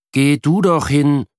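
put-on grouchy kid snapping back; mildly growled retort; grumbling boy. A narrator's reading. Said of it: "brummt Jan".

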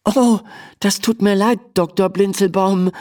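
apologise, slightly flustered; stammering. A narrator's reading. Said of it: "stammelt Emma". (leicht stammelnd, verlegen)

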